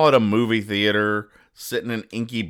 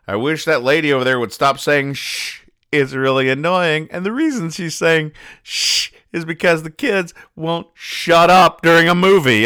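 put-on complaining kid; 8 semitones higher, 5 dB louder than usual. Voicing a complaining child character.

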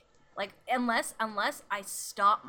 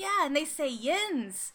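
eager substitute teacher; 6 semitones higher, 4 dB louder, slower than usual. Retold or imitated. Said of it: "And then he was like".

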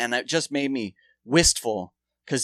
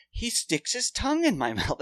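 laughing while quoting; 8 semitones higher than usual. Retold or imitated. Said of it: "She's like".

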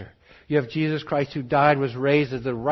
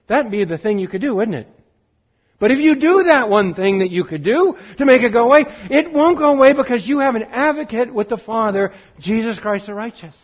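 rising, louder preaching build; impassioned preaching; 6 semitones higher, 7 dB louder than usual. Acted. Preacher urging his congregation, in impassioned full voice. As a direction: preach it out with growing fervour.

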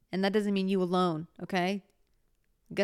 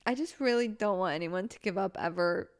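tearful goodbye. Real, not acted. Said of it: "I have the worst crying voice".

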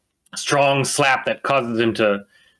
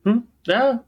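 dwarf voice slipping; 10 semitones higher than usual. Acted. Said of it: "I lost it already".

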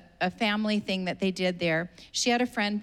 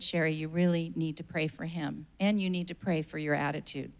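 lower, softer, gentle voice of the Spirit; a quiet, lower inner voice correcting her; Holy Spirit speaking; 4 semitones lower, 4 dB quieter than usual. Retold or imitated. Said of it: "the Holy Spirit said".

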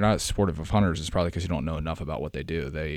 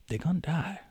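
mock ominous; 11 semitones higher than usual. Dark punchline about chickens.

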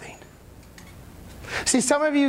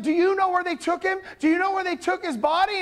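higher-pitched pleading questions; mildly acted worry, rising at the end; anxious Mary; 6 semitones higher than usual. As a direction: ask urgently, voice raised in pitch. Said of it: "she's like, she's like".

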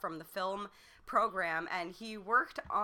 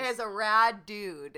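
laughing; 7 dB louder, slower than usual. Real, not acted. Pun on Radu, laughing.

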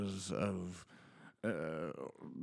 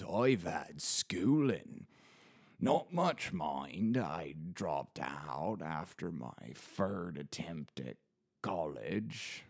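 a hint of a plain-spoken rustic yokel, slow in places; lightly voiced rustic old local. A bored narrator slips into a lightly voiced rustic local, slow in places. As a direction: lightly play a homely old local chatting about his pub. Rustic pub-goer character.

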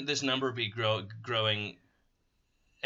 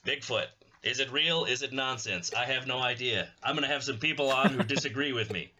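cable news pundit. Acted. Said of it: "cable news punditry voice".

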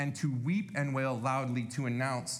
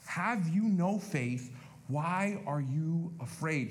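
preacher repeating the rebuke, slowly; slow, weighty repeat; slower than usual. Shown as a demonstration. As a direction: stress "no" in "Have you no faith?". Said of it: "repeated verse".

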